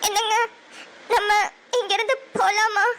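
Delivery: asking through tears; crying. Acted. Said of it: "அழுறியா?".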